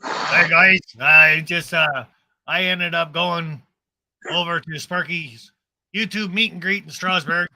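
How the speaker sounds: a poor attempt at an Australian accent, loud at the start; voicing Artie with a failed Australian accent; bad Australian accent. As Artie telling viewers about the meet and greet, a bad Australian accent. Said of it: "I can't do an Australian accent worth shit".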